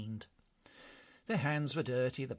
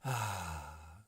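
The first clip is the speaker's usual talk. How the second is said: sigh; 6 semitones lower than usual. A narrator's reading. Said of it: "sighed the brigands".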